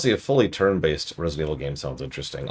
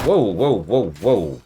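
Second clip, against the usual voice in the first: startled whoa; 2 semitones higher, 5 dB louder, slower than usual. Real, not acted. Surprised by enemy appearing.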